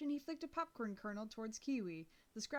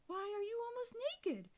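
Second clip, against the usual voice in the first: higher, fussing dog-walker lady; lady rushing to a hurt girl, higher and doting; concerned lady; 10 semitones higher than usual. A narrator's reading. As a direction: coo over her like a worried stranger. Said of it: "She removed one of the earphones".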